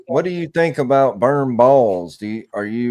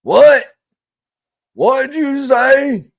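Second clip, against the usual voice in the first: much higher, slow, stretched disbelief; mock outrage; 14 semitones higher, 6 dB louder, much slower than usual. Teasing a friend called a Yankee, mock outrage. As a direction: play scandalized, drag it out.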